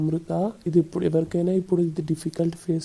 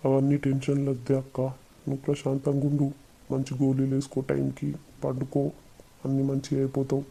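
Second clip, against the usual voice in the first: gentle reassurance; 3 semitones lower, 4 dB quieter than usual. Acted. Brother reassures his sick sister.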